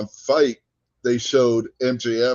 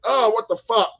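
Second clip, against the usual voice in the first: imitated pained curse; 12 semitones higher, 4 dB louder than usual. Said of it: "he's like".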